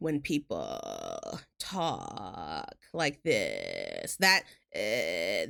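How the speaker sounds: low, creaky, fried-out vocal fry. Explaining what to listen for in British actors' American accents, demonstrating vocal fry. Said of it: "listen for vocal fry".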